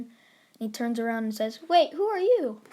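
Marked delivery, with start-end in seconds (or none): 1.7-2.6 high, loud startled "who are you"; surprised question. Acted. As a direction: spin round, caught off guard. Deku turns to a stranger.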